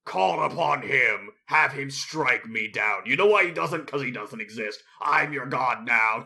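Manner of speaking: slow menacing villain; villain taunt. Acted. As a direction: taunt like a gloating tyrant. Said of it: "voicing villain taunt".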